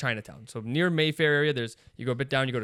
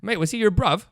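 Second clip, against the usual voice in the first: raised, louder British street slang; bad British accent; 6 semitones higher, 6 dB louder than usual. Older UK guy checking after the scuffle, British accent. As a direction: question a stranger in a put-on British accent. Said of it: "some older guys goes".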